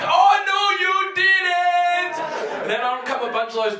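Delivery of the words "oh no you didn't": high, loud gasp of disbelief; shocked crowd. Acted. The whole court reacts to Tony's cruelty in loud shock. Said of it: "everyone's like".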